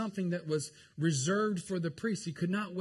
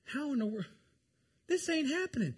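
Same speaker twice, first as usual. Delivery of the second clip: much higher, disbelieving squeal; preacher pretending to be stranded, rising into a squeal of mock panic; 11 semitones higher than usual. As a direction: freak out in mock despair. Panicking at surviving in the wild.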